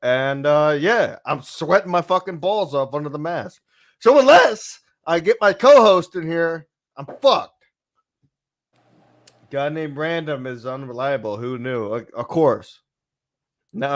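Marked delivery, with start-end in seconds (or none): 0.0-7.5 muffled under a hot mask; talking through a rubber mask; inside a rubber mask. Real, not acted. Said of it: "And this mask is hot".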